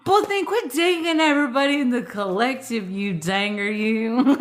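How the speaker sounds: scolding him through giggles; laughing tease. Real, not acted. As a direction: tease him while you can't stop laughing. Teasing a friend while laughing.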